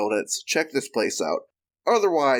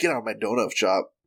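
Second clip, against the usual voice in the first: mock aggressive, angry voice; 3 semitones lower than usual. Acting out a vegan shop owner throwing customers out: imitating an aggressive vegan. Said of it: "be like".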